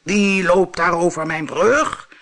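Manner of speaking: monster's challenge; roaring monster. Acted. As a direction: bellow like a troll from under the bridge. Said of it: "brulde het monster".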